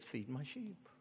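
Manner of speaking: softly and gently, a touch calm; an understated, softly spoken Jesus reply. A narrator's reading. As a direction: answer quietly, with patient tenderness. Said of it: "And calmly Jesus says".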